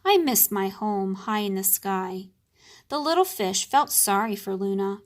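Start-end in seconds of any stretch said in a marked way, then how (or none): 0.1-2.3 a touch of sadness, sighed out; sad sigh. Acted. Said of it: "In a sad voice, Luna sighed".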